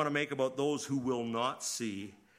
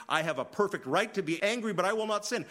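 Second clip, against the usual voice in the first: self-justifying; 7 semitones higher, 5 dB louder than usual. Retold or imitated. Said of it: "by saying".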